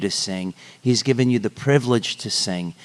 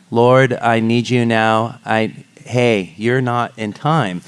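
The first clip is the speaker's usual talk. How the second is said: spoken song lyric; 4 dB louder, slower than usual. Pretend. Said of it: "if we was sort of saying".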